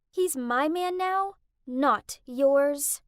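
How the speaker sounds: possessive, bratty rival voice; gloating. Acted. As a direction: rub it in smugly. Rival gloats over stolen fiancé.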